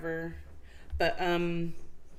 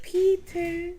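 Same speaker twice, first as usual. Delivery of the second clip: high, loud sing-song call into the basement; 11 semitones higher, 4 dB louder than usual. Retold or imitated. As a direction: call his name down the stairs. Vampires calling Peter from basement.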